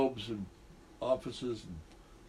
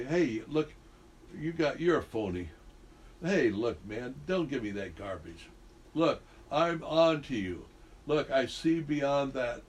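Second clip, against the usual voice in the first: cranked-up intensity. Shown as a demonstration. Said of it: "so the crank up the intensity".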